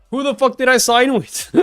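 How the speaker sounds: laughing mock panic. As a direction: imitate his dismay while cracking up. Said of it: "he's just like".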